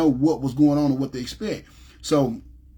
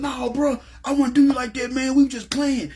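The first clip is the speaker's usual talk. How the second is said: sudden high-pitched protest, much higher than his own voice; protesting denial; 9 semitones higher than usual. Retold or imitated. Friend jumping up to deny the robbery, high-pitched protest. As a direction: jump up into a high, defensive denial.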